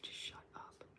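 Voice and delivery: hushed, almost silent dismissal; whispered scorn at a liberal sister; mock whispered shut up. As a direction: breathe it out under your breath, fed up. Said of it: "and I'm like".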